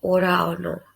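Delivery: ora ono said as in Semarang Javanese, o vowels; Semarang word. Shown as a demonstration. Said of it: "people gonna say".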